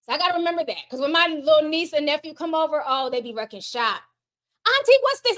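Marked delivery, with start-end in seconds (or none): 4.7-5.4 put-on kid voice. Niece voiced in a story.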